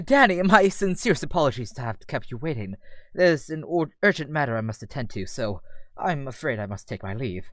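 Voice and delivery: formal, apologetic British gentleman; British Damien. Acted. Damien excusing himself to Danny for urgent matters, formal British voice. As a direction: take leave politely in a British accent. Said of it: "British as Damien's".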